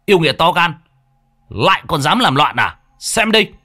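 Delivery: quát lên cao giọng như trừ yêu; hô lớn ra oai với yêu nghiệt. Acted. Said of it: "Miệng nó hô". (thằng Thắng hô to thách thức yêu quái)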